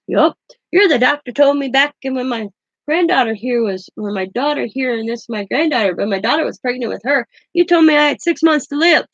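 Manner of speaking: a lightly voiced, gleeful old man scoring a point; imitating grandpa. Grandpa voiced telling off doctor.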